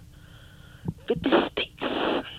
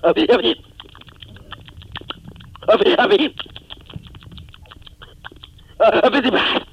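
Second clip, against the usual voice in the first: calling out; 4 dB louder than usual. Acted. Calling out a name loudly.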